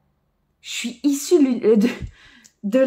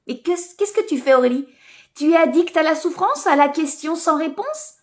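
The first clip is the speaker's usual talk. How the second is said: higher, teasing self-reproach; self-scolding; 5 semitones higher than usual. Retold or imitated. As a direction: scold yourself with a smile. Scolding herself by name.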